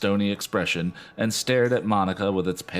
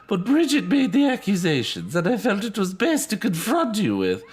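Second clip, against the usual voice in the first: role; 13 semitones higher, 3 dB louder than usual. Acted. Danita voiced higher.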